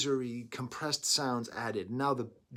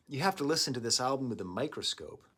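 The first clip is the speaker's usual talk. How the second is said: stoner voice. Real, not acted. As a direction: say it like a laid-back stoner. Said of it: "I sound like a stoner".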